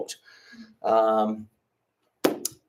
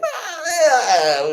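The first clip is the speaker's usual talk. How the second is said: awkward laugh; 5 dB louder than usual. Retold or imitated. Teacher caught out, laughing.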